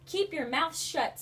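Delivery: slow, high, loud stern command; stern Miss Swamp. A narrator's reading. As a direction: bite off each word, strict. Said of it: "said Miss Swamp".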